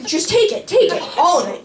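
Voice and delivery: high, pleading surrender; frantic handover. Retold or imitated. Begging friend to take over.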